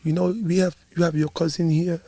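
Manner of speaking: soft, lightly imitated tearful pleading; mock choked-up uncle; uncle near tears. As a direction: imitate an emotional uncle begging gently. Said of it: "he sounds like he's about to cry".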